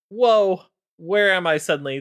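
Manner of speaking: high, loud startled "whoa"; dazed surprise. Retold or imitated. Galakrond waking up dazed after Tyr's hammer blow, startled. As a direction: come to after a knock on the head.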